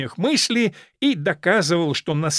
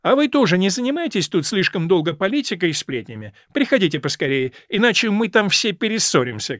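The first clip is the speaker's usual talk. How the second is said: hostess calls back, a bit louder; lightly raised parting call; old lady calls to men from doorway, louder; 6 semitones higher, 5 dB louder than usual. A narrator's reading. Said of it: "крикнула леди Нарбора с порога".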